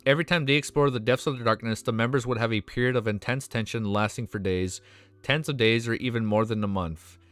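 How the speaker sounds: steady read-aloud novel narration; story narration. A narrator's reading. Streamer reading a novel chapter to viewers, narration.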